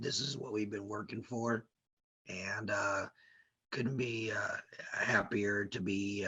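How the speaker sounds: soft, strained sore-throat voice; speaking gently through a sore throat. Real, not acted. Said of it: "your throat's not feeling the greatest today".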